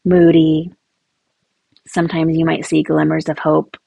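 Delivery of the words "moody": whispered, sulky; a moody teen's hushed word. Retold or imitated. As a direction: breathe the word out sullenly. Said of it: "she's like this".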